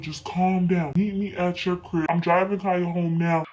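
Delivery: a touch of low, settling dad; lightly voiced calming dad. Dad telling mom to meet him, calm.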